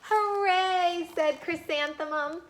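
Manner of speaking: high, loud cheer; excited. Acted. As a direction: cheer for the first day. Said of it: "She sounds excited".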